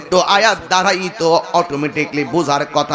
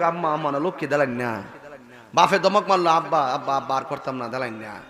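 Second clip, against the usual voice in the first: put-on pleading child; 4 semitones lower, 4 dB quieter than usual.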